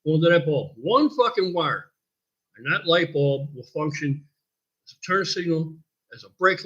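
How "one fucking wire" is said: « one fucking wire » slowed and punched; slow emphatic. Shown as a demonstration. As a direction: hammer the point slowly.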